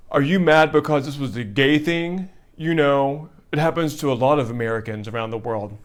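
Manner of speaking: a hint of a smug stranger's voice; lightly voiced emailer. Host quoting a smug emailer, lightly voiced. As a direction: read the email as someone else, barely changed. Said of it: "And he said".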